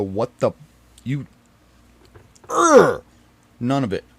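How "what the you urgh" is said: mock outburst. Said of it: "I didn't go".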